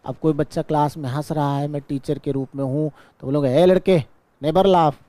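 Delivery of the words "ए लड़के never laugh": louder, higher scold at a laughing pupil; scolding teacher. Shown as a demonstration. Teacher scolding a boy laughing in class, loud and sharp. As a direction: bark it at the kid who laughs. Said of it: "ऐसा नहीं बोलूँगा".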